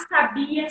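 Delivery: sabia stressed on the BI; stress on middle syllable. Shown as a demonstration. Teacher contrasting three look-alike words, sabia stressed on bi. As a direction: lean on the bi in sabia. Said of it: "É a marcação de sílaba tônica".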